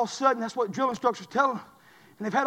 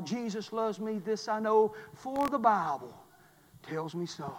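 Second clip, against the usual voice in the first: hushed hymn recital; 9 dB quieter, slower than usual. Acted. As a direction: let the line sink away quietly. Same hymn words repeated quietly.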